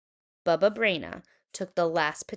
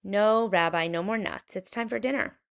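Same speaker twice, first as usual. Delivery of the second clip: Bubba Braina; 2 semitones higher than usual. Acted. Old baker refuses.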